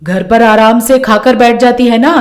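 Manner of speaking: lightly voiced nagging mother-in-law; a hint of a domineering saas; scolding mother-in-law. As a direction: pelt the daughter-in-law with accusing questions.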